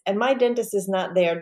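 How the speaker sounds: normal talking voice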